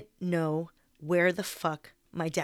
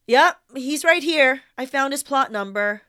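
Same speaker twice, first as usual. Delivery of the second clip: calling out; 6 semitones higher, 8 dB louder than usual. Retold or imitated. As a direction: drag the words out so they carry. Corey keeps calling across the lawn.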